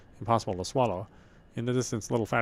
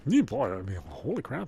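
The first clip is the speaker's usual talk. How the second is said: excited; 2 semitones higher than usual. Real, not acted. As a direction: exclaim it, wowed. Reacting after reading.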